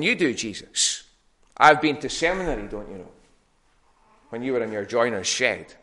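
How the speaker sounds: puffed-up, condescending scholar talking down; smug show-off voicing superior learning; mock smug lawyer. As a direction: play the pompous expert sneering at Jesus. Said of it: "he says to Jesus".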